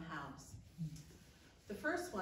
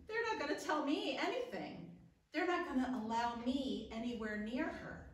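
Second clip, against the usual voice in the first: higher-pitched, mounting indignation; indignant; 5 semitones higher than usual. Acted. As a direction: protest at being shut out. Imagining being shut out at hospital.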